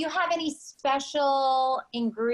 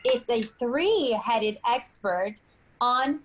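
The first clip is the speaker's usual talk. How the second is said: game show host; 2 semitones higher than usual. Acted.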